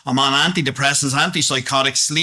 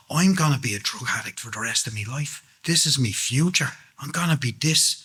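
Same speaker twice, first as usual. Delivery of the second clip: soft, hushed, hopeless inner voice; a broken man's quiet resignation; quiet despair; 4 dB quieter than usual. Retold or imitated. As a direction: murmur it as if all hope is gone. Broken despairing thought retold.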